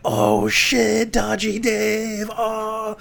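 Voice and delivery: high, loud hammed-up "oh shit"; mock crowd jeer. MPs jeering "Dodgy Dave", high loud mock whoop. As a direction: whoop like backbenchers at a burn. The chamber jeers the insult.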